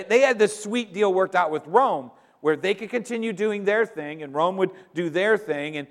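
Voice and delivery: usual speaking voice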